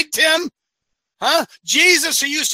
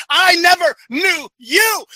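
slower, louder, higher stern rebuke; Jesus rebuking; 6 semitones higher, 3 dB louder, slower than usual. Retold or imitated. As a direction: thunder the verdict down on them. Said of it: "He says".

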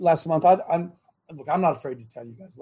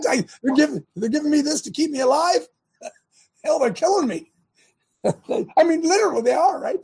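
laughing; 10 semitones higher than usual. Real, not acted. Laughing in disbelief at drug.

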